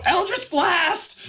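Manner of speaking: high, drawn-out battle cry; spell-casting cry. Acted. Effie zaps Trixie, high drawn-out spell cry. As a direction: cast it in a high, slow character voice. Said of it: "all you see is you go".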